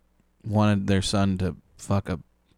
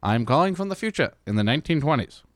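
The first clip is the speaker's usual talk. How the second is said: put-on pitched-up old-time announcer; Michael Johnson; 4 semitones higher, faster than usual. Co-host insisting he calls from the future, mock announcer voice. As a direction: keep up the mock twenties broadcaster. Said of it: "this is Michael Johnson".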